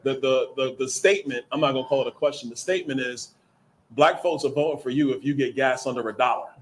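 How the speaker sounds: loud, laughing through the words; cracking up while relaying it. Real, not acted.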